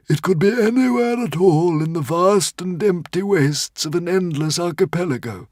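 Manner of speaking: tiny frantic squeaking creature; squeaky little dragon. A narrator's reading. Woden's Fang.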